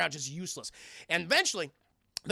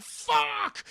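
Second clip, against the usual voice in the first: frustrated curse. Retold or imitated. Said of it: "He's like".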